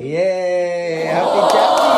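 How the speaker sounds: drawn-out yay building to a loud cheer; excited cheer. Real, not acted. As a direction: cheer it out for the birthday. Family cheers at birthday surprise.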